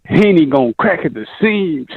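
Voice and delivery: in-character radio prediction; lightly put-on announcer voice; radio announcer act. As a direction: announce it like a fight pundit on air. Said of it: "why are you talking like as if you're on the radio".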